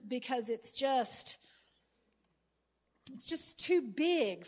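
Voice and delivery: earnest spoken prayer; praying. Acted. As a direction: pray it out to the Lord. Leads an opening prayer.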